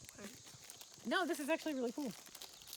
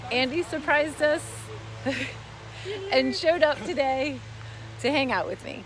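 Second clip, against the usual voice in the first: excited; 4 semitones higher, 9 dB louder, slower than usual. Real, not acted. Birthday, thrilled Andy came.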